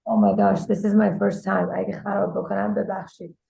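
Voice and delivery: raspy, worn-out voice from screaming all day; hoarse voice. Real, not acted. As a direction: talk through a voice that's nearly gone. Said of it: "I'm losing my voice. I've been screaming all day".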